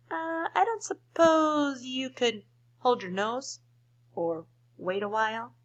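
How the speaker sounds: crocodile voice. Acted. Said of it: "with a sad little smile".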